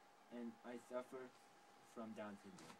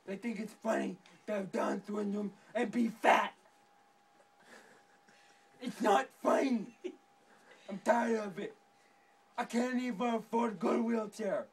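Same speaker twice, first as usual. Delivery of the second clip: angry rant; 2 semitones higher, 6 dB louder than usual. Acted. Character rants about being mocked.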